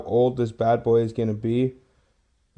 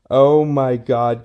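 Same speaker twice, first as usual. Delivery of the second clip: slow, louder gasp of awe; amazed; 5 dB louder, much slower than usual. Real, not acted. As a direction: let it sink in, amazed. Amazed at the old penny.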